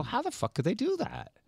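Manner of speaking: high, incredulous outburst; outraged disbelief. Retold or imitated. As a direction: spit it out in disbelief. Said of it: "we go".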